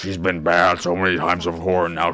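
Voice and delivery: hammed-up grave condemnation; mock disapproval. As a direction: drag it out like a mock stern judgment. Mocks the adults' view of Chloe.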